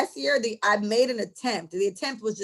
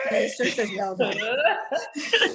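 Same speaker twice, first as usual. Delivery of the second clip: slow words broken by laughter; real laughter through the line; laughing; slower than usual. Real, not acted. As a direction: laugh it out, teasing. Laughing comeback.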